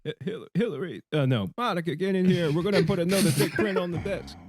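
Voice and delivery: botched presidential impression with Italian lilt; badly faked ex-president, accidentally Italian; Bill Clinton. President calling an aide in, botched Italian-sounding impression. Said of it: "Why does my Bill Clinton come up in Italian".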